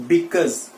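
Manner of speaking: because said as /bɪkəz/, ending in a z sound; correct pronunciation. Shown as a demonstration. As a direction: model the right way, bikuz. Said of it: "एक बार मेरे साथ बोलिए". (सही उच्चारण, बिकॉज़)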